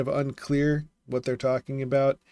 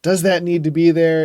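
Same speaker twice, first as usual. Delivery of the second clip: inner question; 4 semitones higher, 11 dB louder than usual. Retold or imitated. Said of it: "I'm like".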